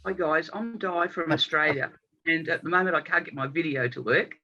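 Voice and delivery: early-morning husky voice; husky, just-woken-up rasp. Real, not acted. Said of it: "excuse my husky voice".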